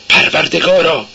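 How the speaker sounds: high cry to God; a mild narrated cry of despair. A narrator's reading. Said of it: "سونیا فریاد زد".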